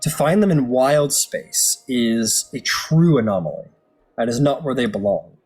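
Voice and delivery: measured storyteller voice laying out ancient lore; game master lore narration. Acted. Game master telling players of cosmic horrors, ominous storytelling. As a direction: tell it like a grim legend by the fire.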